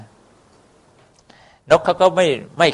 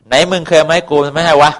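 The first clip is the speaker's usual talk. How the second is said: a hammed-up angry scold, higher and louder; mock scolding; 5 semitones higher, 5 dB louder than usual. The lizard scolds the bird who feeds it, mock angry. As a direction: bark it out like a cranky lizard. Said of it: "นี่มันด่านะสิ".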